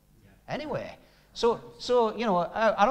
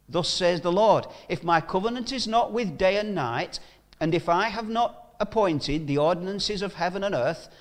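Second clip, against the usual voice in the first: louder, declaiming the Lord's words; forceful Bible reading; scripture reading; 4 dB louder than usual. Acted. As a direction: proclaim the verses to the congregation. Preacher reads scripture aloud.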